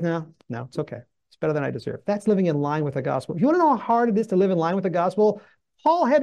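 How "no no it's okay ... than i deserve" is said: soft, low, unbothered reply; calm acceptance. Retold or imitated. Priest shrugging off being spat on, softly calm. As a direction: gently wave the offence away. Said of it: "he's like".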